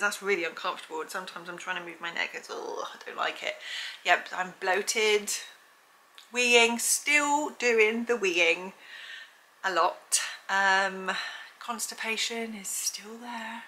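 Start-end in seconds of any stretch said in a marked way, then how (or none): 1.0-3.5 whispered. Real, not acted. Neck pain complaint, hushed. 11.6-13.6 whispered. Real, not acted. Listing symptoms, hushed.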